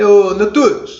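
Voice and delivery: very loud hollered shout. Pretending to call someone at his house, shouted call. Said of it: "Aí você gritou".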